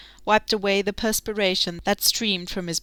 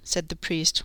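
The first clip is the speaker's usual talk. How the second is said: plain reading voice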